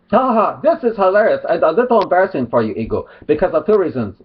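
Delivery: put-on Arab accent with a mock laugh; generic mock Arab accent. Vlogger rereading his opponent's jibe, mock Arab accent. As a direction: read it in a caricatured Arab accent. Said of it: "generic mock Arab accent".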